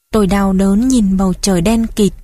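ordinary delivery

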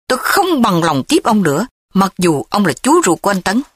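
alarmed and pushing him out; panicked. Acted. Thúy, alarmed at the threat, orders Châm out, a touch of panic. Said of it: "Thúy hốt hoảng".

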